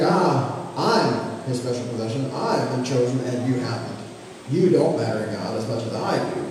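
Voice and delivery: smug mock pride. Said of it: "for us to think".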